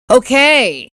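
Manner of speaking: "Okay," falling and pushed out, grudging; a clipped, loaded "Okay," with a drop; curt okay. Shown as a demonstration. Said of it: "there's a difference between saying".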